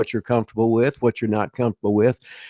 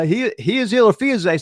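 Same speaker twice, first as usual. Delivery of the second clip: higher, lightly voiced barker asking in carny; carnival barker; 10 semitones higher than usual. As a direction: call out like an old carny barker. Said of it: "The guy go".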